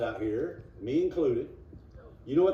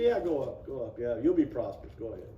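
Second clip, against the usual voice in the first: sarcastic, not hiding the lie; 5 semitones lower, 3 dB quieter than usual. Retold or imitated. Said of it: "he knows he's lying".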